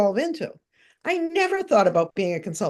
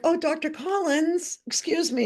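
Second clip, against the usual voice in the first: retold sheepish politeness; 8 semitones higher than usual. Retold sheepish approach to Collins.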